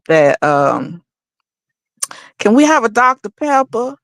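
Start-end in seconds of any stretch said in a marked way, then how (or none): 2.4-4.0 put-on Southern accent. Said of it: "deliberately try to sound like".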